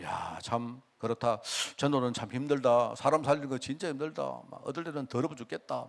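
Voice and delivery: mildly weary, sighing inner complaint; weary lament. Retold or imitated. Voicing own weary inner lament. (지친 듯 가볍게 한탄하는 혼잣말)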